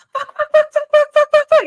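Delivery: high, loud yelps of pain; repeated high cursing after a sting; pained shouting. Retold or imitated. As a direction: yell it out in sudden pain. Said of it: "And I'm like".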